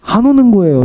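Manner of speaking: rising anxious storytelling; anxious emphasis. Retold or imitated. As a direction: stress the dread of no call. Anxious retelling of waiting.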